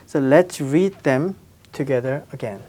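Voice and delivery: usual speaking voice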